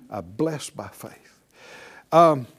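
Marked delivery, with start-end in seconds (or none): 0.1-1.4 softer repeat. Shown as a demonstration. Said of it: "Say it out loud again".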